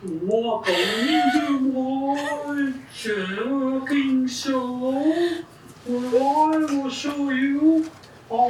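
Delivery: slow, drawn-out eerie ghost voice; haunting moan of a cooking host. Acted. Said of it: "What's the ghost voice?".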